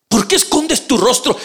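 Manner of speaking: "¿Por qué escondes tu rostro?" mucho más agudo, clamando; clamor. A narrator's reading. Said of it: "Job le dijo". (clamor agudo en "¿Por qué escondes tu rostro?")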